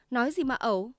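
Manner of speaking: angry. Acted. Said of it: "Chị Tư nổi giận".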